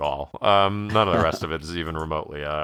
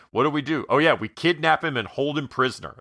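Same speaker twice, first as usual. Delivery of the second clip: kids scheming, pitched higher in mock glee; mock planners; 7 semitones higher than usual. Friends mock the kidnap plan in a mock eager voice. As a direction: play the kids plotting, light and high.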